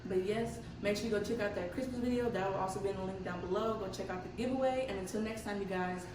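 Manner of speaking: talking with retainers in; wearing a retainer. Real, not acted. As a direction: speak around a retainer. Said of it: "Sorry about my teeth. My retainers are in right now".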